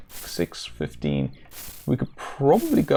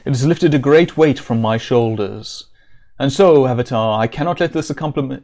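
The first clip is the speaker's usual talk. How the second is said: louder, regal king's reading; reading Lord British; 5 dB louder than usual. Acted. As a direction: read it like a grand king bestowing thanks. Reads Lord British's dialogue aloud.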